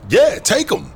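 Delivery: thrilled the stranger can take the photos; relieved delight. Acted. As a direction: gush with relief. Relief at finding FBI help.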